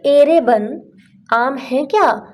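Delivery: high, loud call to the forest. Pretend. Hungry traveller calls out to the forest, high and loud. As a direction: shout up into the trees for mangoes.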